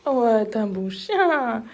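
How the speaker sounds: slow, soothing praise for a dog; drawn-out praise for a good dog; talking to a dog. Real, not acted.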